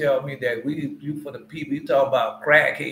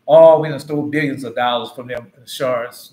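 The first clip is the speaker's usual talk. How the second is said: mock gloating exclamation; 3 semitones lower, 9 dB louder than usual. Preacher exclaims about stolen billions.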